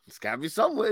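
laughing through the words; chuckling as you speak. Real, not acted. Repeating the line while laughing.

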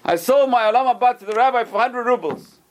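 high, excited bragging; acted merchant, pitched well up; gleeful boast. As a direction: crow about a great bargain. Merchant boasts to his wife.

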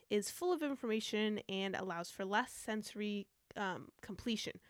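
short of breath, words squeezed out; running out of air. Real, not acted. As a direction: speak at the end of your breath. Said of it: "I'm running out of breath".

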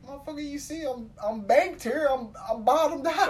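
a hint of exasperation; mock inner exasperation. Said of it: "I'm thinking".

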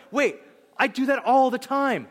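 high, loud laughing gasp of guilt; mock realization. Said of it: "We're like".

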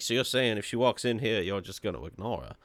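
put-on quiet, lightly drawled Western cowboy accent; a hint of an old Western cowboy accent, said low. Retelling Doc's line to co-host in a light Western cowboy accent. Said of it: "I can't stop doing the accent".

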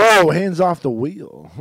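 slow, loud startled warning; drawn-out fake panic; mock alarm. Mock warning to driving friend.

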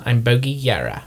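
practising the character accent; Bogey's character accent. Shown as a demonstration. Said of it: "You have to get it back".

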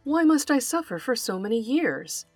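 a mild, plaintive donkey complaint, pitched a little up; a touch of woe as the donkey; understated sad braying plea. Acted. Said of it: "brayed the donkey in a sad voice".

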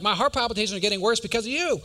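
rushed, exasperated accusation, acted out; frustrated. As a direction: blame the driver in mock exasperation. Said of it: "it just frustrated me so much".

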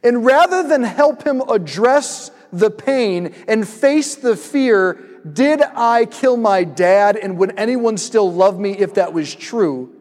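slow, deliberate words, each phrase spaced out; slow earnest reasoning. Retold or imitated. Preacher voicing his own angry thought while watching, slow and deliberate. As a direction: lay out the reasons slowly, weighing each word. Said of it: "And I'm like".

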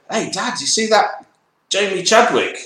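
hint of a Scottish kid calling Dad; Scottish daughter impression. A daughter excitedly telling Dad about a racer, mock Scottish accent. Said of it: "That's my Scottish accent, my impression of your daughter".

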